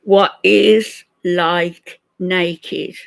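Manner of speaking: loud, drawn-out mock repeat; slow mocking echo. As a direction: drag each word out, loud and slow. Mocking the slowed clip.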